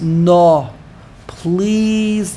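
drawn-out, imploring plea; begging. Retold or imitated. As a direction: stretch it out as an entreaty. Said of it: "He begged Hashem".

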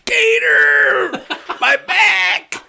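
high, agonized mock wail; Art. Storyteller imitates injured coworker on the ground, high pained yell. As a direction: cry out like a hurt man on the ground. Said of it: "the sound of his voice snapped me out of it".

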